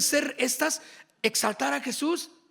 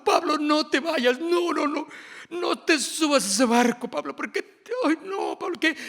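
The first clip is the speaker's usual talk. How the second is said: higher, mock-tearful pleading crowd; pleading friends; 4 semitones higher than usual. Friends begging Pablo to stay, mock-tearful pleading. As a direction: beg him not to board the ship, whining.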